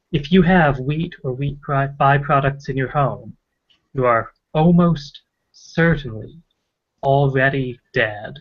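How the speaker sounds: halting read with long pauses before "you are almost certainly" and "already dead."; imitating a radio host's strange, slowed pauses; weird pauses. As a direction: pause oddly, then drag out "already dead.". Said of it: "weird pauses like that".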